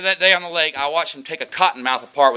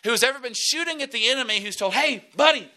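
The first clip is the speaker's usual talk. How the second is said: raised, high preacher's voice driving the point home; full-force preaching; 9 semitones higher than usual. Acted. Pastor preaching hard to his congregation about victory, full force.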